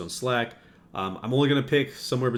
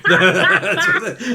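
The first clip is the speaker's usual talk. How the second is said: high laugh through the words; 12 dB louder, much slower than usual. Real, not acted. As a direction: crack up while speaking. Breaks into laughter.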